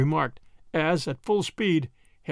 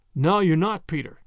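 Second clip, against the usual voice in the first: ordinary delivery, nothing marked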